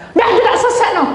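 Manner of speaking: mocking a boss dismissing a quarrel; mock dismissive. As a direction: toss it off with a mocking laugh. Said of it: "Nggak boleh gitu".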